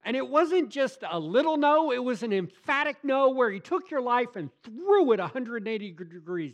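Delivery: loud, high, impassioned preaching; a preacher at full volume, voice climbing; full-force preaching. Acted. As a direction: drive the thief on the cross home from the pulpit. Preaching climax.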